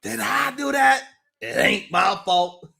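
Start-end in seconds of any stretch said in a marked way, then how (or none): 0.0-1.0 mock innocent. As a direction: play the innocent with a cry. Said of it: "mock innocence".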